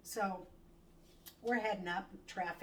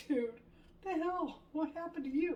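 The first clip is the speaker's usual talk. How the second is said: incredulous; 8 semitones higher, 5 dB louder than usual. Pretend. Mock address to driver.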